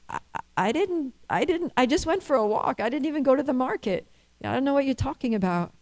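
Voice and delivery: high, fast, stammering protest; flustered denial. Retold or imitated. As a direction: hurry through a nervous denial. Husband denies, flustered.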